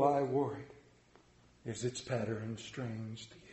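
lightly voiced mournful ghost; solemn ghost. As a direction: weigh each word like a chained spirit. Ghost of Marley speaks.

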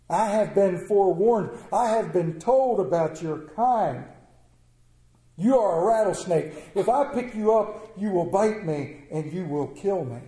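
firm refusal. Acted. Youth warns off the rattlesnake, firm and emphatic. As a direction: refuse firmly, weighting the words.

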